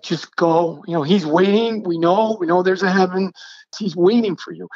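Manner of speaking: retold gentle, urgent pleading. Husband urging his dying wife to let go, pleading. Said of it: "I am now pleading with her".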